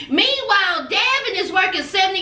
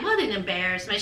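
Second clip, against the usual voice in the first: disgusted mother; 11 semitones lower, 7 dB quieter, faster than usual. Retold or imitated. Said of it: "looking at him like".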